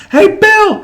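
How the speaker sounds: high, loud yell to get someone's attention; screaming crowd. Retold or imitated. Fan calling out to Bill Murray at the park, screaming. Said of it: "everybody was screaming".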